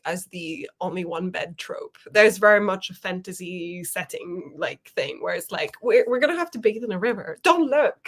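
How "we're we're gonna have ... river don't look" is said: mock flustered warning. Voicing a shy trope character.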